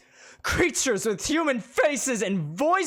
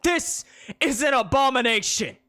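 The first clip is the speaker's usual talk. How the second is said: high, loud preaching; preacher condemning magic creatures; loud condemnation; 8 semitones higher, 5 dB louder than usual. Acted. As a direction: hammer each claim home.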